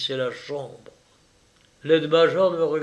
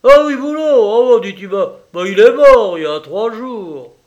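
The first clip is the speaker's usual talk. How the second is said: much higher and louder, casual announcement; careless offhand call; 8 semitones higher, 13 dB louder than usual. Acted. Orderly turning from his sausage to announce the death, offhand call. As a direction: toss off the news without care.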